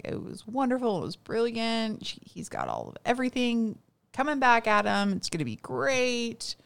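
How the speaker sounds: lightly imitating an enthusiastic reviewer; gushing critic. Acts out the gushing food critic.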